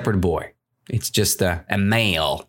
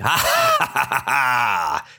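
very loud laugh. Shown as a demonstration. Teacher demonstrating the boy's laughter, loud acted laugh. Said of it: "Very loud, like I'm doing it".

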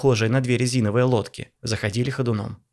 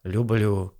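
eye-rolling; 2 semitones lower than usual. Acted. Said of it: "закатил глаза Болдырев".

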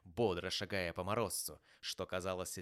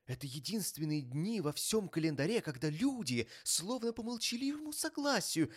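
high, impassioned speech building to a louder cheer; earnest nephew, fervent; 8 semitones higher, 4 dB louder than usual. A narrator's reading. Nephew praising Christmas to his sceptical uncle, fervent. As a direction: plead for the holiday with rising fervour.

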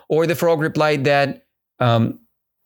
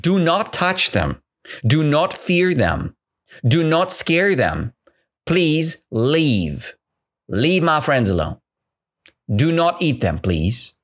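pleading elephant; 2 semitones higher than usual. Acted. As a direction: beg the tiger to let her friends go. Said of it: "that is why the elephant said".

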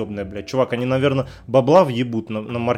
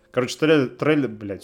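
tipsy, tongue tripping over words. Real, not acted. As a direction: stumble over words like after beer. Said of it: "у меня язык заплетается". (пьяный, заплетающийся язык)

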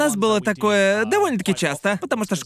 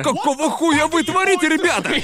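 angry teacher; 7 semitones higher than usual. Retold or imitated. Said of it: "Она такая".

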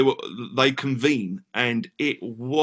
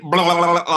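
mock blade-spinning noise; 4 semitones higher, 5 dB louder than usual. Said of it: "this thing went".

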